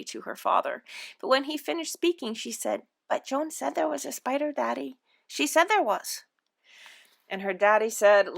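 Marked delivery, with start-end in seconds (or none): 3.1-6.2 put-on higher, small girl's voice; pleading child. A narrator's reading. Anne explaining herself to Daddy, pleading child. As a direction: protest meekly in a raised little voice.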